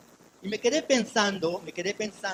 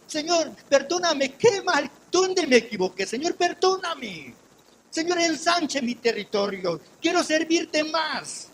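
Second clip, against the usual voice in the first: slow, loud, high pleading to God; retold anguished prayer to the Lord; 7 semitones higher, 5 dB louder, slower than usual. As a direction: beg forgiveness, drawn out and rising. Retold desperate prayer in hospital.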